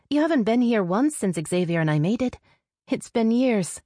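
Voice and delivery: exasperated sister. Acted. Sister chiding her rarely visiting brother, high insistent voice. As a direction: pitch it high for the sister's reproach.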